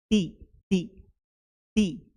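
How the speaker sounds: "टी" slow, tongue tip touching the back of the upper teeth; demo of the T sound. Shown as a demonstration. Teacher drilling "टी" for students, slow and deliberate. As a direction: tap the tongue under the upper teeth for "टी", slowly. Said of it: "when it comes टी".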